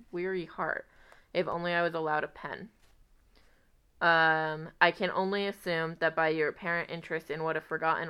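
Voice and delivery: letter read aloud, lightly voiced; reading a love letter. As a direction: read it like a heartfelt old letter.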